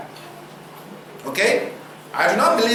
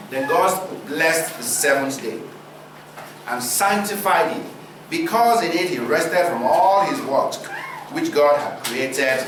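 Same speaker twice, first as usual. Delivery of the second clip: measured, solemn reading of scripture. Acted. Preacher reading Genesis to the congregation, solemn.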